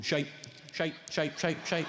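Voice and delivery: inner voice grumbling. Retold or imitated. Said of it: "that voice in there, going".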